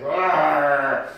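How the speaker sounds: fed up and pleading at once; frustrated outburst. Retold or imitated. Sick preacher voicing his fed-up prayer, exasperated and loud. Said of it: "And I'm like".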